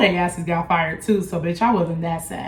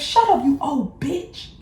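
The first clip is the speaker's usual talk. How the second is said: mock scream; 6 semitones higher, slower than usual. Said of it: "I screamed that".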